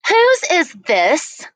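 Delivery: teacher asking. A narrator's reading. Teacher demanding whose sweater.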